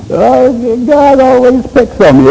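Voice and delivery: high mock whine of a complainer; whiny wimp. Preacher mocking a weak believer who whines about God. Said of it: "we got wimps".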